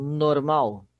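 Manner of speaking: normal with a firm, loud final -MAL; stress on normal's last syllable. Shown as a demonstration. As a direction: lean on the end of "normal". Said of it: "a sílaba tônica migra". ("normal" com ênfase na sílaba final)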